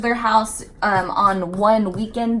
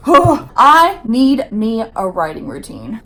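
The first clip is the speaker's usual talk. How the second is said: sighing; 5 dB louder, slower than usual. Real, not acted.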